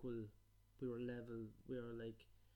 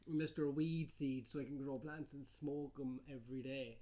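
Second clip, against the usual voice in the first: mock hippie; 6 dB louder, slower than usual. Mocking hippie persona.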